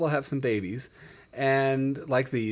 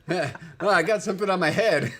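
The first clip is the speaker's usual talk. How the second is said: voicing the animal; 5 semitones higher, 3 dB louder than usual. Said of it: "He just goes".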